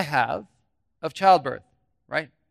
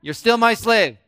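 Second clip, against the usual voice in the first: playing the devil; 3 semitones higher, 6 dB louder than usual. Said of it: "I'm gonna be the devil".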